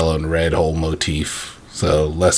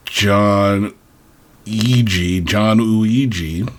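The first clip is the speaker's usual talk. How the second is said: slow careful saying; much slower than usual. Shown as a demonstration. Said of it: "even hard to say".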